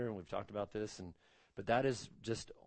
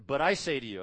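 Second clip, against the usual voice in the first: "I" hit louder in "But I say to you"; emphatic I; 2 semitones higher, 7 dB louder than usual. Retold or imitated. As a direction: punch the word "I" with authority. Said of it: "it's emphatic".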